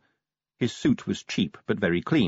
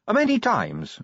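bright-voiced recruit; 13 semitones higher, slower than usual. Voices Sally replying.

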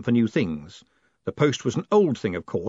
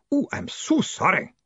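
high, sugary mock apology; insincere, syrup-sweet sorry; syrupy; 10 semitones higher than usual. A narrator's reading. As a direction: drip false sympathy. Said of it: "The sentence ended in syrup".

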